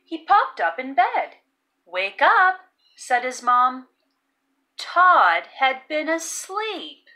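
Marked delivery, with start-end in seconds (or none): 1.8-2.6 mom calling out. Acted. Mom wakes Todd.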